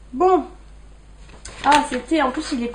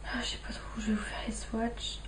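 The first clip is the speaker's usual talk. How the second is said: presque chuchoté, très bas; marmonné pour soi; 13 dB quieter than usual. Real, not acted. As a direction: se parler à soi-même tout bas. Se parle en cherchant où swatcher. (à mi-voix, en cherchant)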